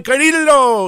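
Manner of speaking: put-on high accented "ka-REE-do"; put-on native accent. Host pleads his heel dimples case, mock native accent. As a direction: throw in the exaggerated accented "Carrillo". Repeats the exaggerated accented name.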